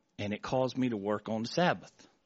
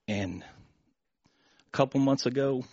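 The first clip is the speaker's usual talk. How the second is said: emotional; slower than usual. Real, not acted. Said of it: "sorry, I get emotional".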